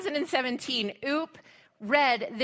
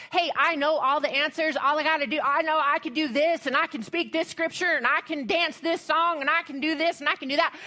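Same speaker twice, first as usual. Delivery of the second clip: mock boastful Ezekiel; 3 semitones higher, faster than usual. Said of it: "he isn't saying".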